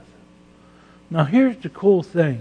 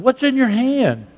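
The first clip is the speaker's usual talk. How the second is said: higher, louder probing question; voicing God's question; 10 semitones higher, 4 dB louder than usual. Preacher voicing God asking Moses, raised question. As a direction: ask it as God, already knowing.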